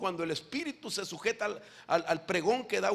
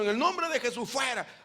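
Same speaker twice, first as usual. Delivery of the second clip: raised, punchy rebuke; commanding exorcism; 4 semitones higher, 3 dB louder than usual. Acted. Preacher acting out casting out spirits, commanding. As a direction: order the spirit out forcefully.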